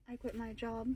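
very soft, low aside; hushed. Real, not acted. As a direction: say it under your breath. Hushed repeat of the big news.

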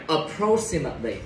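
"Approximately" with the stress on "PROX"; stress on second syllable. Shown as a demonstration. Teacher showing students the stressed syllable, "Approximately" stressed on "PROX". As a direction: hit "PROX" in "Approximately", the rest lighter. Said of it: "Từ này nhấn vô âm tiết thứ".

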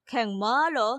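low, puzzled repeat of แข่งม้า; แข่งม้าเหรอ asked low and wondering; surprised echo. Acted. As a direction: catch on แข่งม้า as if it rings a bell. Echoing surprised question.

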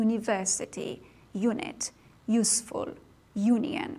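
"University، unit، useful، union" each opening with a Y glide; initial "you" sound. Shown as a demonstration. Teacher demonstrates the first sound to students, initial "you" sound.

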